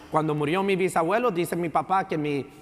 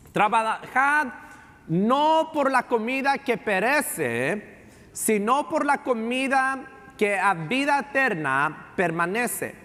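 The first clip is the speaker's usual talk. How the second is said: raised, slow solemn scripture read; 3 semitones higher, slower than usual. Acted. Pastor reads scripture to congregation, slow and raised. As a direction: proclaim each phrase to the church.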